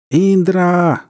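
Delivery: high, drawn-out shout of a name; loud, high holler; yelling. A narrator's reading. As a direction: call out urgently for help. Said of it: "заорал Манду".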